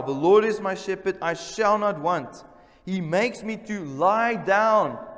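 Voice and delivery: proclaimed scripture. Acted. Preacher proclaiming psalm.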